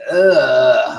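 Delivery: long, drawn-out ugh; drained groan. Shown as a demonstration. Streamer showing viewers how tired they feel, drained groan. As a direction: let out a slow, worn-out groan. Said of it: "feeling really drained lately".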